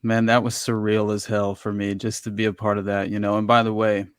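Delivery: numb mouth after dentist. Real, not acted. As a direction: talk with half a numb mouth. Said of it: "half my mouth is still numb from going to the dentist".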